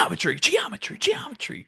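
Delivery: rising high silly chant; mock animators. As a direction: chant it like a joke. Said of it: "They're like".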